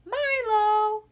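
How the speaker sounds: high, loud call across the field; loud call to the dog. A narrator's reading. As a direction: call the dog from far away. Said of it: "she called".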